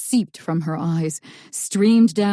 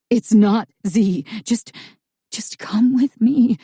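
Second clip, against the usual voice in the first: urgent whisper; 4 semitones higher, 4 dB louder than usual. Acted.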